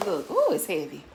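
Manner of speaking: winded and puffing; out of breath from lifting. Real, not acted. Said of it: "I'm out of breath opening this".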